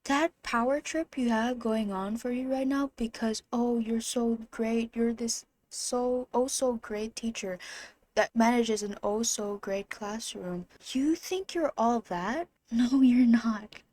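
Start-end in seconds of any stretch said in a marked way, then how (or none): 3.5-10.6 sarcastic mockery. Real, not acted. Mocking the teacher's pride. 10.9-13.8 taunting sass. Real, not acted. Taunting the teacher.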